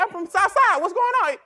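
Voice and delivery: claiming your hood. Retold or imitated. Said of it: "You start claiming where you from".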